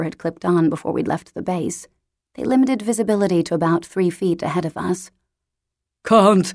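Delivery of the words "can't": cheerfully called back. Acted. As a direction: call out brightly over the shoulder. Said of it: "he called back cheerfully".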